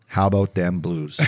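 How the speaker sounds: chuckling through the quote; laughing. Retold or imitated. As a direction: read it with a laugh. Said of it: "the text from Freddie".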